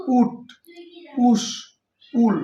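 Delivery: "উট", "পুশ", "পুল" said apart with a short "উ"; teacher modelling the short "উ" in "উট", "পুশ", "পুল"; clear example words. Shown as a demonstration. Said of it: "যেমন".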